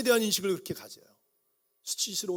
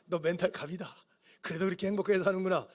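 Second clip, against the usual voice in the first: encouraging parent. Retold or imitated. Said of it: "우리 교인들은".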